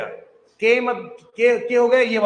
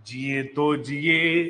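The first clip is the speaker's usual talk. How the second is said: slow sounding out; 6 semitones lower, much slower than usual. Shown as a demonstration. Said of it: "जिए, हाँ".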